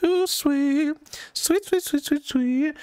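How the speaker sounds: high-pitched excited squeal; high squealing sweet. Acted. Squealing excitement in comedy bit.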